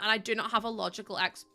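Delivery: hiccuping mid-sentence; a hiccup breaks the words. Real, not acted. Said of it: "oh, hiccup".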